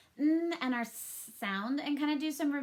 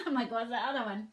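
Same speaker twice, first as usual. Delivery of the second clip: laughing at herself; faster than usual. Real, not acted. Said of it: "laughing at forgetting".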